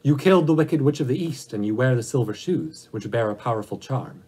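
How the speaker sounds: a hint of a commanding ruler setting a task; great Oz.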